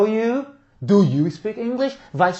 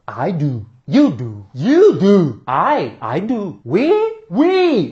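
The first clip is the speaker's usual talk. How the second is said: wild swinging drill pitch; madman drill; much slower than usual. Shown as a demonstration. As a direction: chant it like a crazy person. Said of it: "imaginar que você tá falando".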